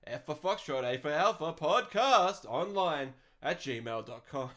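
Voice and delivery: slow, spell out each letter for listeners. Shown as a demonstration. Podcaster spells his email for listeners, slow and careful. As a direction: address read out deliberately, letter by letter. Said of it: "send them through to".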